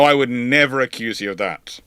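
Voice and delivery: ordinary talk, nothing marked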